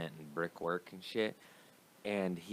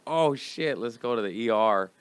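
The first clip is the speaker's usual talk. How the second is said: alarmed mom; 3 semitones higher, 7 dB louder than usual. Retold or imitated.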